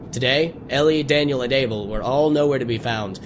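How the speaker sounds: lightly voiced storybook reading; understated narrator voice; story narration. A narrator's reading. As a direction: read the tale to the viewers. Reads game story text.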